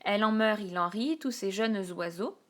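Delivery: lightly declaimed alexandrine; a hint of theatrical verse reading; verse recital. Shown as a demonstration. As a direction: recite it like a poem. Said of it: "je vous ai pris un vers d'Hernani".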